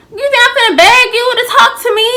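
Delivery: fast, high, loud disbelief; incredulous. Retold or imitated. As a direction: scoff at the idea, fast. Incredulous retort to friend.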